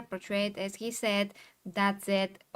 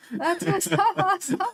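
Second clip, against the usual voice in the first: laughing; 8 semitones higher, 6 dB louder than usual. Real, not acted. Cracking up over the pizza joke.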